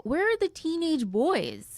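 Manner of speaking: high, drawn-out plea; theatrically exasperated question; mock wailing demand. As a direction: stretch it into a plaintive call. Mock lament for absent boys.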